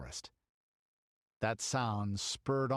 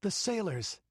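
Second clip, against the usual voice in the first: a gasped, higher cry of alarm; gasping; 9 semitones higher than usual. Acted. Girl sees the sailors fleeing, gasping. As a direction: catch your breath at the sight. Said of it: "she gasped".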